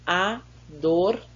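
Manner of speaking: "adormecer" as four separate syllables with pauses; split into syllables. Shown as a demonstration. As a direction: break "adormecer" after each syllable, spacing them out. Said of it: "Separe as sílabas dessas palavras".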